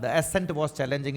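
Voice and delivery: slow, measured example for repeating; spaced-out English model reading; model sentence. Shown as a demonstration. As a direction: read it out slowly for learners. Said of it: "इसको बोलते रहो".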